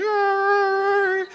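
high yelping dog cry; imitated husky cry. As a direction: mimic a husky's whine, high and sharp. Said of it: "he's like, crying".

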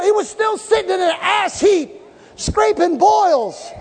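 high, climbing preacher's cry; full-force preaching. Acted. Preacher rousing the congregation about Job, full force. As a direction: preach it up to the rafters.

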